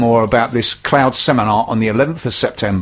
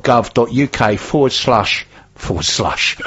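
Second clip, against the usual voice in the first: put-on Northern Ireland accent; 2 semitones lower, slower than usual. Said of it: "I was doing that in a Northern Ireland accent".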